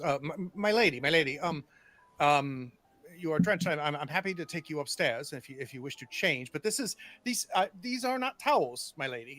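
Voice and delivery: lightly voiced footman, stammering politely; hesitant servant gently objecting, stumbling over words; a hint of a deferential, flustered footman. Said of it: "a footman comes up and goes".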